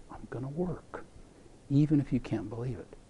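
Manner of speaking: hushed and patient promise; gentle. Acted. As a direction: reassure her kindly. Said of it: "He gently says".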